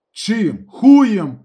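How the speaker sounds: loud, high insolent question; cheeky shouted retort; brazen, cheeky. A narrator's reading. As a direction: toss it back brazenly. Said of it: "розв'язно запитав Калюня".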